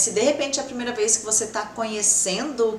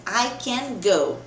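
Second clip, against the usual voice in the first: slow example read; much slower than usual. Shown as a demonstration. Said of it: "a gente falou assim".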